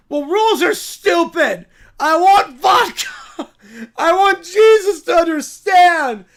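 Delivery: loud whiny insistence; petulant demands. Acted. Pilgrim demanding vodka from the guide, loud whiny tantrum. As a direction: stamp your foot and demand it.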